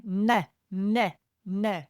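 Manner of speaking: "neh, neh, neh" with tongue pressed to the palate; hungry baby cry, tongue on roof. Shown as a demonstration. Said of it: "Imagine you don't have any teeth and you put your tongue on the roof".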